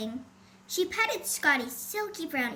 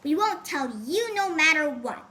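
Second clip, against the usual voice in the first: stubborn; 5 dB louder than usual. Acted. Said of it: "rather stubbornly".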